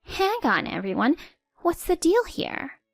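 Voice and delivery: high, flustered stammer; stuttering mother-in-law. Acted. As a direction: lose control of the room. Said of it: "Pam stuttered".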